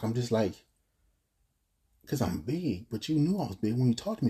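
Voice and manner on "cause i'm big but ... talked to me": mildly stunned, confused protest; retold shock. Man retelling his shock at being rejected for his size, mildly stunned. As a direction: question it in hurt disbelief, understated. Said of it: "I'm just in shock".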